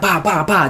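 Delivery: quick "bah, bah, bah" fight noises; spoken combat sound effects; imitated punches. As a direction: mimic a flurry of blows. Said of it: "they start clashing".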